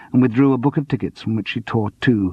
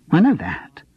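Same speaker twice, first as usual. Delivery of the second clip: sharp defensive retort, higher; snapped; 6 semitones higher than usual. Acted. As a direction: snap it back at him. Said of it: "she snapped".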